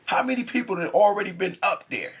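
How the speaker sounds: put-on high, laughing child's question; kid's disbelieving question. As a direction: ask it like a stunned little kid. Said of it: "I'm like".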